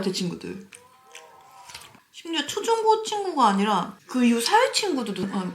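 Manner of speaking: ordinary talk, nothing marked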